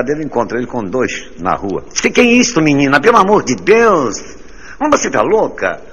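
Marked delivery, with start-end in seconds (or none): 2.0-5.8 high, loud shocked shriek; shocked scolding. Acted. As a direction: scold her like a scandalized friend. Colleague scolds the 'menina' loudly.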